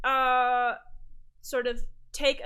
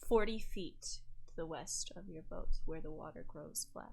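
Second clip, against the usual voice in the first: hushed scene setting; 7 dB quieter than usual. Acted. Game master tells Galen what is sensed, hushed.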